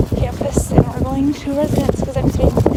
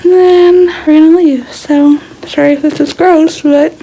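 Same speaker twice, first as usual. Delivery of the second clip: talking through a toothbrush; while brushing teeth; 4 dB louder than usual. Real, not acted. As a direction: mouth full of toothpaste. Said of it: "I'm brushing my teeth".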